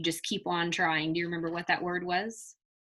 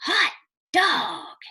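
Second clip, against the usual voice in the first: high, loud gleeful cry; a kid's whoop of joy, much higher and louder; excited exclamation; 12 semitones higher, 5 dB louder than usual. Acted. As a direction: shout it with delight as he zooms by. Frank whizzes down street.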